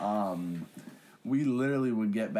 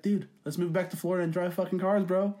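hyped up; 7 semitones higher than usual. Pretend. Hyped imagined pitch to old friend.

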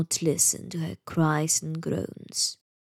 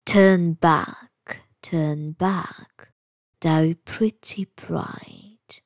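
slow whispered warning; hushed, eerie bird's call; bird's warning cry; much slower than usual. Acted. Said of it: "she heard a voice cry".

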